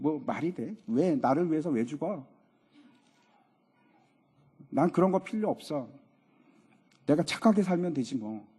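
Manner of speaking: lightly acted skeptic, low and offhand; a hint of a scoffing worldly man; dismissive unbeliever. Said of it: "세상 사람들이 이렇게 얘기합니다".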